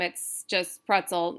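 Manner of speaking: "pretzel" said evenly, neither syllable stressed. Shown as a demonstration. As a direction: keep both syllables of "pretzel" unaccented. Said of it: "Nothing is stressed".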